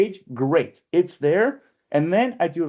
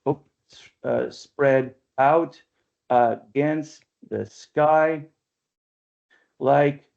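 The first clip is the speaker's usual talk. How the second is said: slow, measured recitation of verse; unhurried poem reading with long pauses; poetry reading; much slower than usual. Acted. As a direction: read each line slowly, savouring it. Reads Eliot aloud, slowly.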